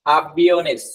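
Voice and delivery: aviones with stress on the i syllable, a-vi-O-nes; teacher models aviones, leaning on the i. Shown as a demonstration. Teacher demonstrating to students, aviones with stressed i. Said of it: "यहाँ पे stress देना है आपको".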